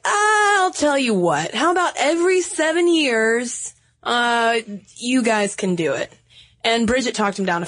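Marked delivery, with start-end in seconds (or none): 0.0-6.1 a hint of a high, slow Irish accent as Saint Patrick; lightly put-on Irish brogue, bargaining. Saint Patrick answering Bridget in the podcast story: mild Irish accent. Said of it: "Are you gonna do an Irish accent".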